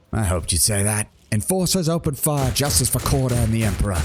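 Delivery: cold commander, Enforcers and open fire pitched high; Korda's command. Acted. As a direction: give the order to open fire.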